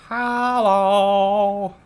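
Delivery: hammed-up big demon hello; chunky demon. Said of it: "some big chunky demons. It's like".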